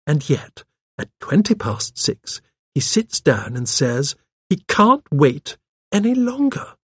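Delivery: put-on genteel elderly voice making a point; old lady sleuth. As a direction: reason out the puzzle, pointedly.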